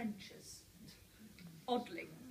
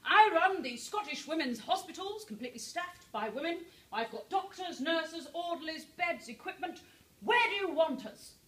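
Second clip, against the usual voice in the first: brisk doctor; 4 semitones higher, 4 dB louder than usual. Retold or imitated. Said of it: "goes along to the authorities ... and says".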